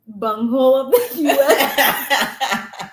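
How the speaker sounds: slow, laughing through the words. Real, not acted. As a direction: drag it out while laughing. Laughing mock insult, drawn out.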